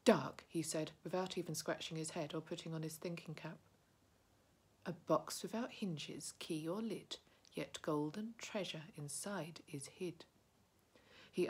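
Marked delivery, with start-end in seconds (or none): 0.1-0.5 quick answer. A narrator's reading. Bilbo answers at once. 4.9-10.2 riddle recital. A narrator's reading. Bilbo's riddle.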